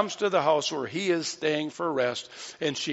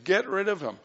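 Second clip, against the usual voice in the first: complaining; 4 semitones higher than usual. Acted. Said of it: "They're complaining and saying".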